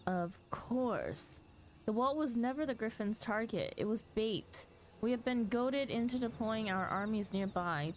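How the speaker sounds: urgent fantasy dialogue. Acted. Streamer voicing battle news in the cutscene, lightly urgent commanders. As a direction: sound the alarm like a knight at war. Voices game characters aloud.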